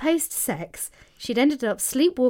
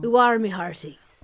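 a hammed-up pirate growl. Hosts playing pirates for pirate day, hammed-up pirate. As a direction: play a cartoon pirate captain. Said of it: "Aye, aye, Captain".

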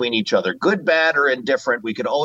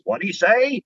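higher, quacky cartoon duck voice; Donald Duck catchphrase; 8 semitones higher than usual. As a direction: squawk it like Donald. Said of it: "the whole shtick was".

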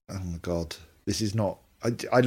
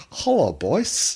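slow drawn-out cartoon turkey shout, hello rising; Terry the Turkey; 3 semitones higher, much slower than usual. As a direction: stretch out hello like a cartoon turkey calling the lads. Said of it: "he every year used to say".

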